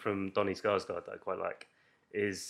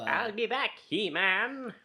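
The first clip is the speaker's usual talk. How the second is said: action hero voice; 9 semitones higher, slower than usual. Retold or imitated. Action movie catchphrase parody.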